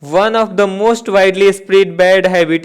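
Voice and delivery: slow, word by word dictation; dictation pace. Shown as a demonstration. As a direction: read it out slowly for copying. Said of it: "reads question aloud slowly". (धीमे धीमे बोलकर लिखवाना)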